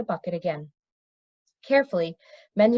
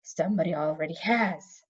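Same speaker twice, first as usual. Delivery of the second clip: rasping; 4 semitones lower, 4 dB quieter than usual. Acted. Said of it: "a fourth voice rasped".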